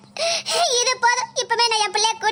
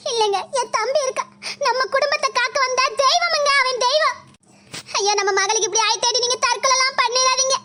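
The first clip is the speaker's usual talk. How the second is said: fake tearful plea; 3 semitones higher than usual. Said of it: "என்ன நாடகம் ஆடில".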